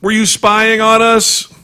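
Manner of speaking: high, drawn-out accusing question; slow, indignant alien interrogation; mock accusation. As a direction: confront them, pitch way up.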